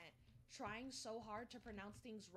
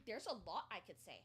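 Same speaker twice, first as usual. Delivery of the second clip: mocking imitation; 2 semitones lower than usual. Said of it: "She keeps saying".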